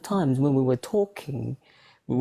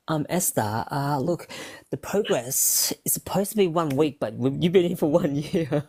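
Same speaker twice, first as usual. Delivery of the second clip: imitated therapist; 2 semitones higher than usual. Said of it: "He'd be like".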